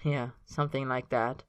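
drowsy contented answer; sleepy and happy. Acted. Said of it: "sleepy and happy".

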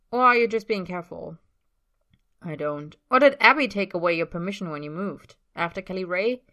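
pushy teasing. A narrator's reading. Tyler pushing with loud questions.

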